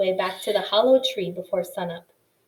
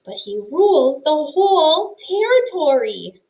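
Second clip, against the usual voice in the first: higher, anxious mouse voice; scared mouse protest; 7 semitones higher, 7 dB louder than usual. Acted. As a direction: plead it, frightened.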